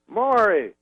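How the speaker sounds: high, slow comedian impression; Bill Cosby. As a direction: call to the manager in halting fragments. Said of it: "he goes".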